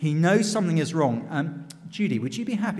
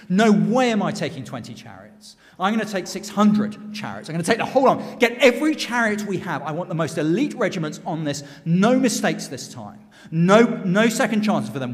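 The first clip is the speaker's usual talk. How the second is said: emphatic, louder royal orders; forceful commanding; 5 dB louder than usual. Acted. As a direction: rap out orders as a determined king. Pharaoh banging fist, giving orders.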